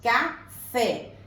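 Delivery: "Café" split into ca, then a firm fé; "Café" sounded out as ca... FÉ; syllable by syllable. Shown as a demonstration. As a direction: pause between the syllables of "Café". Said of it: "Qual que é a sílaba forte?".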